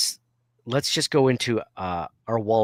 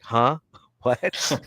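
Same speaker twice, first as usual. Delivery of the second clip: rising hard-of-hearing gag, laugh between; feigned deafness; 3 semitones higher than usual. Shown as a demonstration. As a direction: pretend not to hear, amused. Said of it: "you're like".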